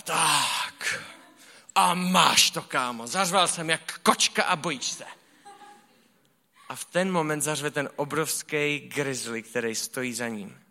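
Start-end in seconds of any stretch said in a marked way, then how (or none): 0.0-5.1 hammed-up little bear bragging, louder; cocky bear cub. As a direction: swagger like a tiny cub who thinks he scared the puma. Medvídek se chlubí pumě. (hraně vychloubačný medvídek, hlasitěji)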